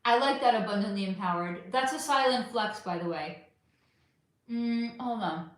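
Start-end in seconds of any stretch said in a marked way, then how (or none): 4.5-5.5 talking with chocolate in mouth; eating chocolate. Real, not acted. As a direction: mouth full, chewing. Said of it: "I have chocolate in my mouth now".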